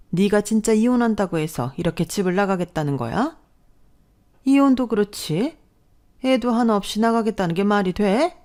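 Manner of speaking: high, shrill-free outraged mother-in-law; shocked shout. A narrator's reading. Mother-in-law seeing packed bags, shocked shouting. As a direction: cry out in horrified outrage. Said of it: "경악하며 소리쳤어요".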